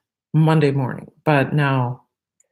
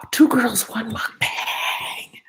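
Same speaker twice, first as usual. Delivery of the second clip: announcing; 6 semitones higher, slower than usual. Shown as a demonstration. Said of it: "announcing channel name".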